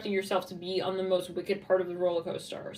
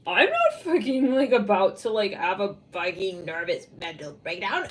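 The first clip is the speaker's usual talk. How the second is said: mock indignant denial; 3 dB louder than usual. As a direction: protest too much, hammed-up and emphatic at first. Voicing someone denying a breakdown.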